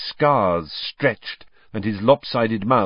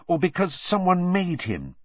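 eager question, pitched higher; 8 semitones higher than usual. A narrator's reading. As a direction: lean in keenly with the question. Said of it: "said Hermione eagerly".

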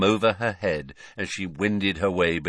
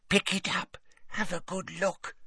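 whispering; 11 semitones higher, 6 dB quieter than usual. A narrator's reading. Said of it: "whispered Hepzibah".

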